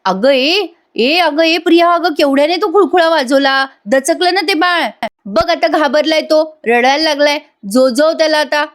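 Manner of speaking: half-acted shout at a careless aunt; retold scolding yell. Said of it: "सायली ओरडते तिच्यावर".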